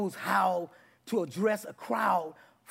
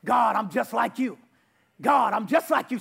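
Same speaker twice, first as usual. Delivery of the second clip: loud declaration; 4 dB louder than usual. Shown as a demonstration. Congregation declaring to God out loud. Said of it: "Start declaring out your mouth".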